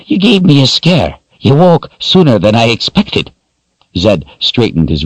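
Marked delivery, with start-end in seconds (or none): 0.0-3.3 high raspy crone voice; raspy old woman. A narrator's reading. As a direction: rasp it out like an old witch. Narrator voices Addie.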